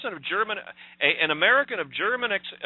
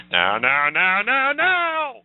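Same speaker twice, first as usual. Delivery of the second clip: louder and louder no, last one high; laughing protest; 4 semitones higher, 5 dB louder, much slower than usual. Real, not acted. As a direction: beg him to stop, still laughing.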